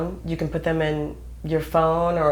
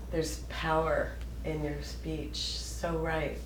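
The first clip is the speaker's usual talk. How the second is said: quiet agreement; 12 dB quieter, slower than usual. Real, not acted. Agreeing with Don, reflective.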